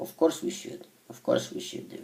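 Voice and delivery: soft whisper under the breath.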